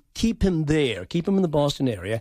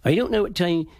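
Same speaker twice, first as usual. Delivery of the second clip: put-on old East Anglian settler accent. Shown as a demonstration. Dialect coach showing how Plymouth Rock settlers sounded, East Anglian accent. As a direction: speak as a Norfolk and Suffolk settler. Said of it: "they sounded like this".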